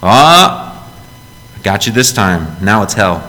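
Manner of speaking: lightly voiced smug accuser; gotcha God. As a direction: play a petty God catching you out. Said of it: "just to go".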